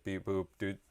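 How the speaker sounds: a hint of a smug robot, even and steady; mock AI robot voice. AI mocking its owner Josh, lightly robotic. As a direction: tease like a snooping AI assistant. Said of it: "They're like".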